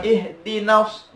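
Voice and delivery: IHDINAS with a brief, unheld "na"; vowel too short. Shown as a demonstration. Teacher repeats the mistake, short na. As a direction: say "ihdinas" without lengthening na.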